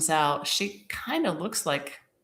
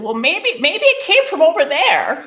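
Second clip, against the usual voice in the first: high, loud, insistent suggestion; retold frantic plea; urgent pleading; 10 semitones higher, 9 dB louder than usual. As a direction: pitch it high and push hard, desperate for hope. Upset, pleading suggestion to stranger.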